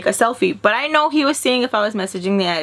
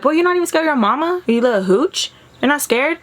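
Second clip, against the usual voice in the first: mock scolding mom; 7 semitones higher than usual. Mom scolding son in car.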